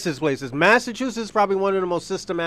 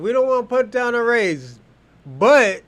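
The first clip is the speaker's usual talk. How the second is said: mock-quote the speech, landing hard on but; quoting the speaker; 4 semitones higher than usual. Host quoting the rally speaker, pointed echo. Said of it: "He said".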